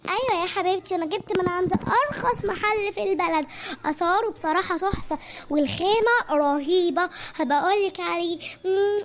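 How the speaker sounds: Fathiya boasts about what she spent; friend's voice. Acted. Friend Fathiya answers on phone.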